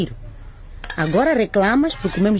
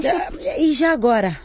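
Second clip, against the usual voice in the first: angry outburst; 7 semitones higher, slower than usual. Acted. Wife furious at estranged husband.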